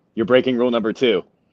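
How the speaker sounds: ordinary talk, nothing marked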